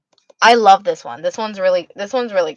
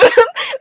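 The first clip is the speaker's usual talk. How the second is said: uncomfortable laugh. Real, not acted. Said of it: "that laugh was my".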